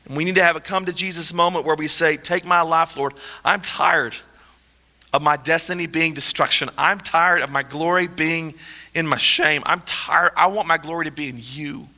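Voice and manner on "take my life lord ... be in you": low, subdued plea to God; earnest prayer. Acted. Preacher modelling a prayer of surrender to the Lord, low and earnest.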